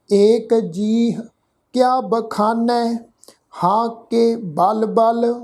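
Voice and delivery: steady, measured reading of the verse; scripture recitation. Acted. Teacher reciting the savaiya to the congregation, measured recitation. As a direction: recite each line evenly, with rests. Reads the whole savaiya through.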